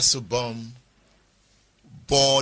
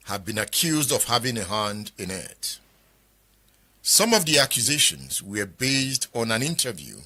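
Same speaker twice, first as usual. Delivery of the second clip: measured presenter reading, long pauses between phrases; formal read-out. Acted. Presenter reads from the book.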